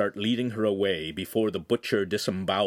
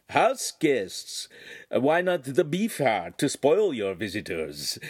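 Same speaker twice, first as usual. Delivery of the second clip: higher, slow, coaxing shopkeeper; butcher's sales voice; 4 semitones higher, slower than usual. Acted. Butcher coaxing the signora to buy, higher and slow. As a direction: sell it to her sweetly, like a butcher.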